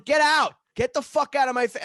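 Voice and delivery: high-pitched, loud re-enacted outburst; acted-out shouting in exasperation; retold yelling. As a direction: yell frantically at the dog. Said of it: "I'm yelling at the dog".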